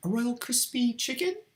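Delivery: put-on woman's voice, very high. Showing their usual way of talking in a female voice: put-on female voice. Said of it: "It was something more like this".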